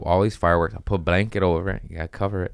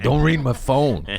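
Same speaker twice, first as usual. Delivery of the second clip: pleading inner thought; 6 semitones higher, 4 dB louder than usual. Retold or imitated. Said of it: "I was like".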